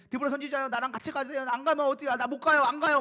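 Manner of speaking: imitating a reluctant coward, rushed out in rising agitation; mock timid pleading. Preacher mocks Barak as too scared to go, mock pleading. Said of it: "막 이러고 있는 모습이죠".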